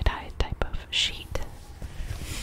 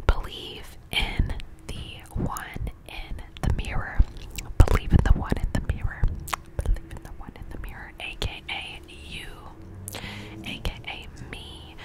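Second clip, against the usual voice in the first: whispered pep talk. Acted. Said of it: "And then the last one is".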